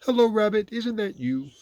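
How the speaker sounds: high, loud hopeful question; Pooh calling. A narrator's reading. Pooh calling to Rabbit down the hole, high voice. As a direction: call out high to a friend.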